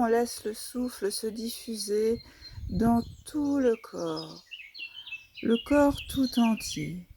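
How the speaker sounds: soft, unhurried yoga nidra guidance; guided relaxation. Real, not acted. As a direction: guide the body into rest, softly, with long pauses.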